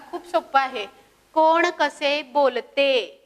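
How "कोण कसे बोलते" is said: slow reading. Shown as a demonstration. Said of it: "teacher reading title slowly".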